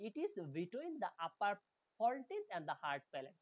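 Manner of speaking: slow, careful English text reading; slow reading aloud. Shown as a demonstration. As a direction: read each word out slowly for students. Reads English text slowly. (ধীরে ধীরে পড়ে শোনানো)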